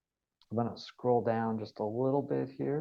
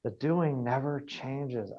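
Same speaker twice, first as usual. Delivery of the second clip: "The doing never changes" said slowly and deliberately; emphatic; slower than usual. Real, not acted. Coach repeating the key lesson to trainees, emphatic. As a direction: stretch out "The doing never changes" to make it sink in. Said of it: "I will emphasize that over and over".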